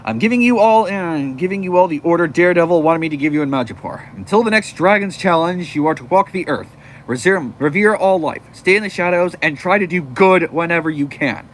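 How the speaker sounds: loud, mildly commanding hero voice; giving orders. Acted. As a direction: address the troops firmly. Leader gives orders to the group.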